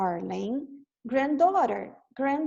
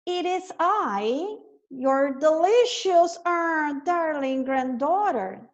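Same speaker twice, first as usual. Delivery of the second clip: wolf putting on a high voice, slow; the wolf faking a sweet girl's voice; 4 semitones higher, slower than usual. Acted. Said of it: "said the wolf in a high voice".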